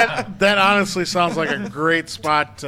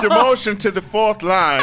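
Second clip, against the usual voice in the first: mock Aussie accent; 3 semitones higher, 3 dB louder than usual. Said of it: "Still more Aussie".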